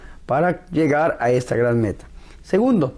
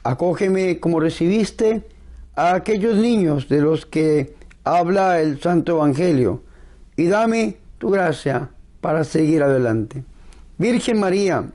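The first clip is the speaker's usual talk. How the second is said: prayer. Acted. Leads a spoken prayer.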